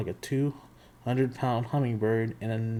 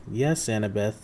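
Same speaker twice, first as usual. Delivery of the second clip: purring. Acted. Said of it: "the woman purred".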